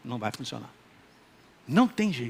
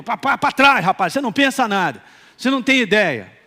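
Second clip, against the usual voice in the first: louder, pushing thoughts back sharply; stern rebuke; 3 semitones higher, 5 dB louder than usual. Retold or imitated. Inner man ordering the flesh back, stern and louder. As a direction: scold the idea away.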